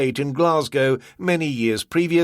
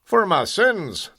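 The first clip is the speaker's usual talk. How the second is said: slow, higher bitter Scots; bitterly; 8 semitones higher, slower than usual. Acted. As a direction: spit it out ruefully. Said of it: "McInnerly said bitterly".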